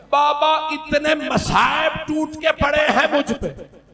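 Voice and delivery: high, tearful plea to her father; weeping plea. A narrator's reading. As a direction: wail the complaint, voice breaking. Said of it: "बीबी ने रो के कहा". (रोती हुई ऊँची फरियाद)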